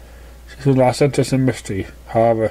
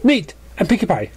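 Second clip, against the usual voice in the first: Pinkie voice; 7 semitones higher than usual. Acted.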